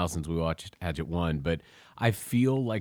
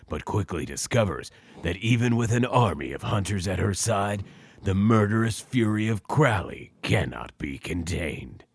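movie trailer voice. Shown as a demonstration. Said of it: "Can you do the movie voice blurb?".

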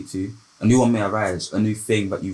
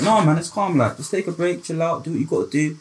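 imitating a friend; 8 semitones higher than usual. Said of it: "A friend will probably be like".

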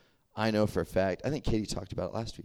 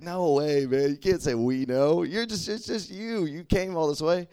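mock incredulous scolding; 8 semitones higher, 5 dB louder than usual.

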